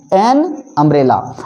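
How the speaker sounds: a slow, low example; slow model phrase. Shown as a demonstration. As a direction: lay out "एन अम्ब्रेला" slowly. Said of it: "अ vowel में आता है".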